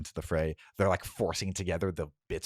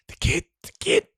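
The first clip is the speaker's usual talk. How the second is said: urgent high call; 7 dB louder than usual. Acted. Someone calls about the kid.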